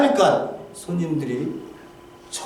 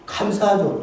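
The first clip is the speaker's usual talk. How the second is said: ordinary delivery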